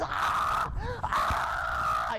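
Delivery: hammed-up agonised scream; long mock screams of pain. Bitten man who keeps on screaming on the ground, screaming. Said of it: "he's just screaming".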